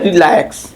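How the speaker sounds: रिलैक्स with the weight on LAX; light RI, stressed LAX in रिलैक्स; stress on second syllable. Shown as a demonstration. Teacher showing how it is said, stressing LAX. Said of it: "कैसे बोलते हैं?".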